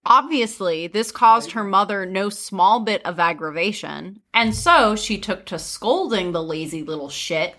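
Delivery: measured fairy-tale narrator; story narration. A narrator's reading. Telling friends of a scolding mother, story narration.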